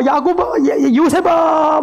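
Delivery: high mock wail of grief; acted, high-pitched anguished call; anguished cry. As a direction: call out like a mourning father. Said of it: "막 소리를 지르면서 눈물을 흘리고".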